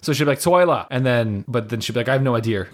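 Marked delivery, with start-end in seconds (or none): 0.4-0.9 "Toilet" in an imitated New York grandmother's pronunciation, louder and higher; grandmother's added R. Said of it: "add it to all sorts of other words". 2.1-2.7 "idea" ending in an R, like "idear"; grandmother's added R. Retold or imitated. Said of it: "add it to all sorts of other words".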